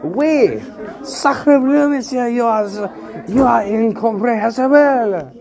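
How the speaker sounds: put-on French accent. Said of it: "I'm speaking French, idiot".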